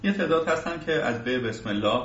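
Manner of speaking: ordinary talk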